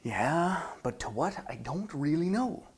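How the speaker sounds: soft, deflated private doubt; mildly glum inner voice; inside voice. Acted. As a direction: quietly admit it to yourself. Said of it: "And the inside voice says".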